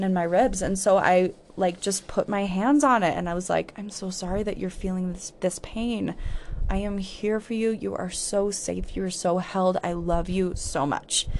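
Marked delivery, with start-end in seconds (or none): 3.8-11.3 soft, quiet reassurance to yourself; tender comfort. Real, not acted. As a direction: cradle the words gently. Comforting her own pain.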